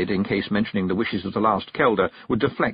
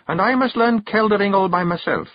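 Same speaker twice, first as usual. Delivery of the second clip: higher Scottish firm wife; stern Kelda; 8 semitones higher than usual. Acted. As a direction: lay down the law. Jeanie closing.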